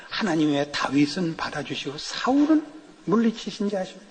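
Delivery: imitating a Gyeongsang pastor preaching; a hint of Gyeongsang preacher, punchline dropped low; light mock Gyeongsang sermon; Gyeongsang dialect. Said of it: "경상도 분 목사님".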